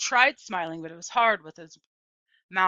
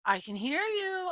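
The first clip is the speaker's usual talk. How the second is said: hollered; 11 semitones higher than usual. A narrator's reading. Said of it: "I hollered back at them".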